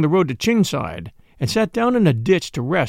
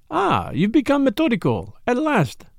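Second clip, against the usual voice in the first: approving; 8 semitones higher than usual. A narrator's reading. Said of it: "said Poirot approvingly".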